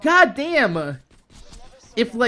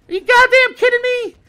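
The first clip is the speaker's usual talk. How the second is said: higher, louder cry of disbelief; exasperated outburst; 11 semitones higher, 5 dB louder than usual. Real, not acted. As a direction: throw it out in angry disbelief. Ranting about the shutoff.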